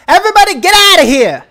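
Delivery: urgent, booming high shout; Bucky. Acted. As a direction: yell a fast evacuation order at full force. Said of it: "As Bucky goes".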